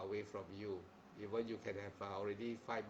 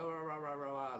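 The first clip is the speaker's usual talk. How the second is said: mock chicken squawk; 4 semitones higher than usual. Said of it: "the noisy chicken".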